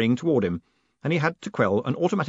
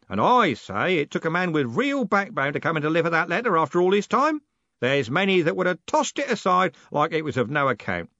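put-on loud, high, hearty old man; blustering old merchant who never lowers his voice; old merchant booming at the young postman; 8 semitones higher, 3 dB louder than usual. A narrator's reading.

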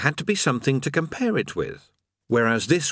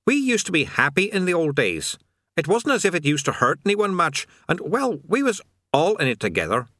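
fast, higher aggrieved demon; sullen indignant demon; 6 semitones higher than usual. A narrator's reading. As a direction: nostalgic put-upon grumble. Demon voiced.

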